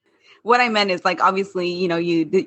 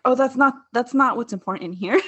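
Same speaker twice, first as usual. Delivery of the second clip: giggling through a mock brush-off; laughing deflection; 5 semitones higher than usual. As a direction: laugh while dodging the question. Imitating Teresa deflecting.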